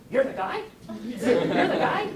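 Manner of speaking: high, drawn out and laughing; can't believe it's you; laughing disbelief. Retold or imitated. Best friend asking the speaker, laughing in disbelief.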